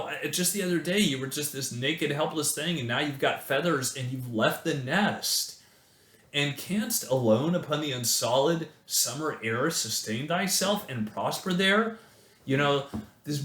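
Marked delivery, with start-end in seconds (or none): 0.0-12.0 mother bird. Acted. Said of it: "a mother bird who's like".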